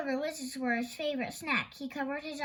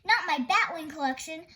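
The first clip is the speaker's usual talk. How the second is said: wailed; 3 semitones higher, 5 dB louder than usual. Acted. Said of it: "Thorndyke wailed".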